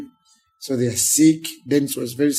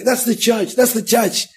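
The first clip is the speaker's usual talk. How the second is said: hurried conductor; 8 semitones higher than usual. Retold or imitated. Rushed conductor pointing out church.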